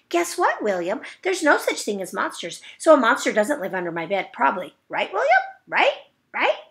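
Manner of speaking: put-on insistent, anxious kid; high pleading nag. Junie B nags William to agree there's no monster, high and pleading.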